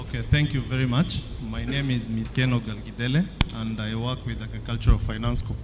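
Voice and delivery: hoarse, faint voice after a night of celebrating; barely-there hoarse voice; lost voice. Real, not acted. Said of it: "I lost my voice last night".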